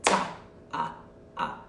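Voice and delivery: evenly spaced "Ta, ah, ah, ah"; whole-note counting. Shown as a demonstration. Teacher demonstrates whole-note clapping, evenly counted. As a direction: count four beats, a syllable on each clap. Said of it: "So it looks like this".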